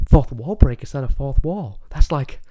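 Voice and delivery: Deadpool voice. Retold or imitated. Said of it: "he's like".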